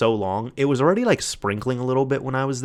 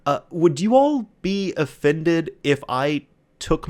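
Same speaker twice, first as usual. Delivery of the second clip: polite customer; 4 semitones higher than usual. Retold or imitated. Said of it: "he's like".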